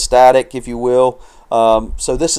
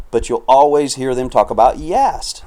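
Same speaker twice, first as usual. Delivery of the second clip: voice cracking; 2 semitones higher than usual. Real, not acted. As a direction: let the voice break on "Yast". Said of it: "Sounded like a thirteen-year-old there".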